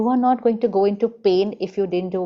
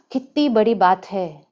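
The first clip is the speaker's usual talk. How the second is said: gasping alarm. Retold or imitated. Gasp, big deal reaction.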